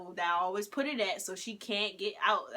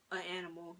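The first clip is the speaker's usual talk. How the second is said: breathy whisper, "an animal" slipped in under the breath; whispered aside; 8 dB quieter, faster than usual. Real, not acted. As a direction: whisper "an animal" as a sly correction.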